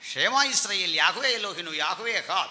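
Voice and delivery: flowing, rhythmic Hebrew declaration; lilting creed recital; musical recitation. Shown as a demonstration. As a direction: recite it in one rolling run. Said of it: "ഇത് മ്യൂസിക്കലാണ്".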